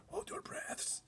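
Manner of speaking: unvoiced warning whisper; giant whispering. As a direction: hush her, breathless and secret. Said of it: "the B F G whispered down to her".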